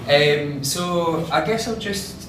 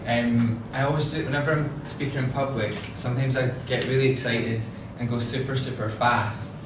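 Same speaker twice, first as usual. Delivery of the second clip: broad Scottish accent. Real, not acted. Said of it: "when you've got a super strong Scottish accent".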